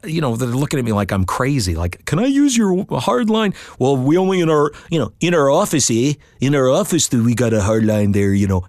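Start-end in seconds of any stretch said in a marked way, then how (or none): 2.0-3.5 polite request. Retold or imitated. Asking hotel staff. 3.8-8.7 lightly voiced Ontario hotel clerk; Canadian accent. Hotel clerk answering about the office hard line, in mock Canadian. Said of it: "the Canadian people are really nice".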